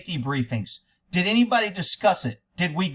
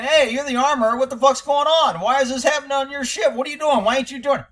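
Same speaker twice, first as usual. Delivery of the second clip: imitating crew heckling; 5 semitones higher than usual. Commentator voicing stuntmen heckling the armorer, mock angry. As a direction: throw the crew's jeers back at her. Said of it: "She means they're saying".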